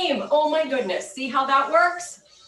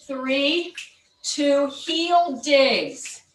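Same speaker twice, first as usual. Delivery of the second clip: aerobics instructor; much slower than usual. Acted. Counts down the class moves.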